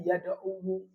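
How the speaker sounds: slow demo of yada'u with an added -wu syllable; full underlying ending. Shown as a demonstration. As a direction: voice the last wawu of yada'u with its own u.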